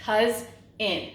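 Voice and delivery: "Cuz in" as two separate beats; teacher sounding out "Cuz in" part by part; split into syllables. Shown as a demonstration. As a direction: say "Cuz in" with a gap between the syllables. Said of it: "we have two syllables".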